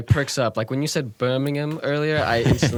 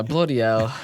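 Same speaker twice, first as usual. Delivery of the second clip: imitated English exclamation; posh English accent. American echoing the actor, in mock English accent. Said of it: "Oh, that's so posh".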